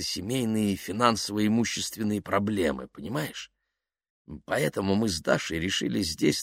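soft, halting explanation; hesitant, confiding Yuklin. Acted. Yuklin explaining the hotel room to Kaftanov, halting and confidential. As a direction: explain it confidentially, feeling for words.

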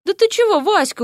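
rising, startled disbelief; he can't believe she doesn't care; surprised. Acted. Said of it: "удивился Дерек".

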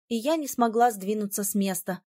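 ordinary delivery

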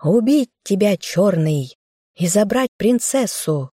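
usual speaking voice

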